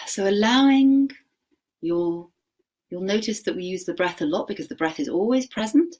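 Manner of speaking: gentle meditation guide; guided meditation. Acted. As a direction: ease the class into noticing the breath. Leads a short practice.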